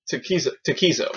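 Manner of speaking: name repeated in a quick run; quick tongue-twister attempt; fast tongue-twister. Shown as a demonstration. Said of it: "you can't say three times fast".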